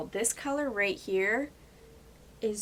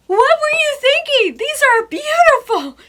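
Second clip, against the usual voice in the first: much higher, much louder squeal of joy; delighted shriek; 16 dB louder than usual. Retold or imitated. Retelling opening the palettes, thrilled squeal. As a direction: shriek it in giddy disbelief. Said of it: "I'm like".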